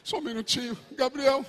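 a hint of a patient, mocking Father; lightly voiced indulgent God; mock God listening. God humors the whining child, mock patient. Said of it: "você acha que Deus tá como lá?".

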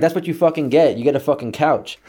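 mild mock dad yell; angry yelling. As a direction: throw it back as retold scolding. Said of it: "he's just yelling at me".

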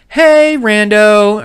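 high, slow drawn-out hello; mom greeting. Retold or imitated. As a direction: mimic mom's casual greeting. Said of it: "my mom goes".

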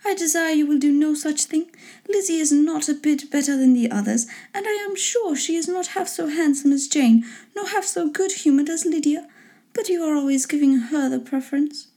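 high-pitched lady objecting; put-on high, put-out wife voice; indignant wife. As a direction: pitch it up and protest the favouritism.

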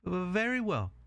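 high, small pig voice; agreeable little pig. Acted.

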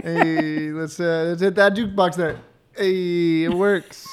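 lightly voiced jukebox-hitting cool guy; Fonzie. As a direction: stretch the "hey" in a playful impression. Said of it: "not Fonzie".

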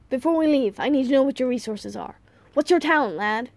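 put-on a touch of brisk old-man urgency; lightly voiced businesslike grandfather.

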